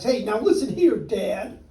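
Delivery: the Onceler yelling back at the Lorax; yelled. Acted. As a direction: shout him down. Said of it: "I yelled at the Lorax".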